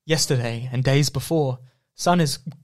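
very cold. Acted. Reading the second verse to a friend, acting very cold. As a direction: stammer through chattering cold. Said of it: "but I'm very cold".

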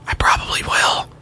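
mock-secret whisper under the main patter; whispered aside. Radio host admitting to a caller he'll forget, whispered aside. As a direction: confess it in a hushed whisper.

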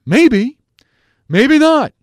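mock a colleague's squeaky maybe; imitating Bradford. Host mimics Bradford to his listeners, high mock squeak. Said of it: "I sound like Bradford".

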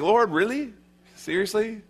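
high, disbelieving Lord really; incredulous Ananias. Acted. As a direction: balk at the Lord's order. Ananias voiced doubting.

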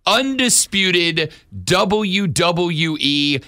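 slow, drawn-out wrestling announcer intro; ring announcer. Acted. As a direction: build it up and shout the name.

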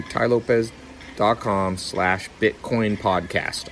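slow, careful URL read-out; each part set apart for listeners; spelled out slowly. Shown as a demonstration. Host reading the web address slowly for listeners, deliberate.

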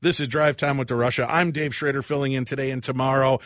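brisk, projected station ID; polished on-air announcer delivery; radio host sign-off. Real, not acted. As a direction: send it to the break like a drive-time host. Radio host reads station break.

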